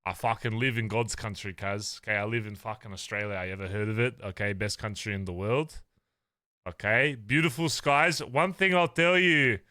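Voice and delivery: lightly broad Western Sydney ocker talk; Western Sydney accent. Acted. Bragging to chat about Australia, light Western Sydney accent. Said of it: "doing my Western Sydney accent".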